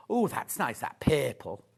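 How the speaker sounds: put-on Scouse accent. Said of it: "Does she speak like that?".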